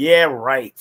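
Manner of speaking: mock-condescending tone. Retelling a man's reply about Duke Lawrence: mimicking a condescending tone. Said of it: "with that same that condescending tone".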